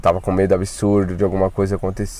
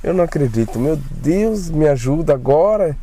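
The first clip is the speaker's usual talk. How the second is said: higher, frantic retold panic; scared disbelief, voice raised in pitch; panicked inner thoughts; 5 semitones higher than usual. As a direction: replay the moment you realise you've been left alone. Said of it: "Aí eu fiquei pensando".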